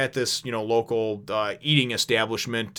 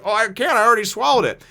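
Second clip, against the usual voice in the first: carefree Luffy; 10 semitones higher, 6 dB louder than usual. Retold or imitated. Luffy voiced, too late.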